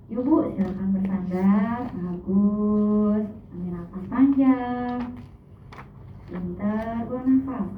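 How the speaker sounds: gentle, unhurried guiding intonation; hypnotherapy prompts with pauses between them; gentle hypnotist. Shown as a demonstration. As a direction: coax a patient gently into relaxing. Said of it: "Intonasinya lembut".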